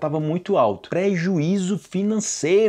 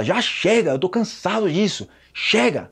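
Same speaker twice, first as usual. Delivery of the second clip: angry; 4 semitones higher than usual. Acted. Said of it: "com raiva".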